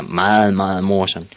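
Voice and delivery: dry, unamused sarcasm; sour. Acted. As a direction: say it sourly, not amused. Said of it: "sagde de surt".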